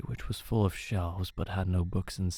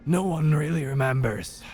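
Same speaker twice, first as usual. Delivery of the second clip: put-on old man voice; 8 semitones higher, 5 dB louder than usual. Old man character speaks.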